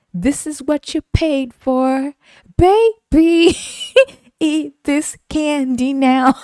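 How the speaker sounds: slow, high, emphatic telling-off; hammed-up order, loud and drawn out; mock commanding. Server ordering customer to eat it, mock stern.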